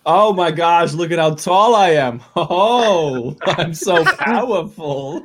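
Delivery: big boastful giant voice; hammy mighty brute. Acted. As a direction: puff up and gloat about your strength. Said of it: "I'm gonna hunch over and be like".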